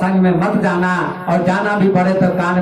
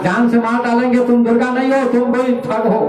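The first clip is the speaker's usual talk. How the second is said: raised, higher angry threat; threatening shout; 6 semitones higher than usual. Acted. Brothers shouting threats at the fake goddess, mild angry shout. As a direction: yell it at the impostor.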